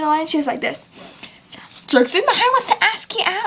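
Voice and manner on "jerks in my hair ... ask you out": mock silly girl. Mimicking a girl in line.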